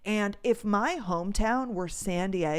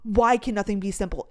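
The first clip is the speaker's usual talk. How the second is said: sudden loud exasperated shout; a loud fed-up groan of a line; frustrated outburst; 3 semitones higher, 12 dB louder than usual. Retold or imitated. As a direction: cry it out in frustration. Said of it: "I'm like".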